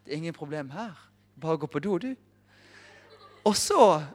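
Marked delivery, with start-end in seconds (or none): 0.0-2.1 calm reassuring. Retold or imitated. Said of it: "Så jeg bare sånn".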